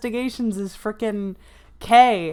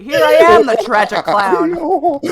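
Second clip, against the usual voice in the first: loud, slow theatrical lament; dramatic villain voice; 5 semitones higher, 7 dB louder, slower than usual. Retold or imitated. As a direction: wail it like a tragic clown. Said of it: "his breakdown is great".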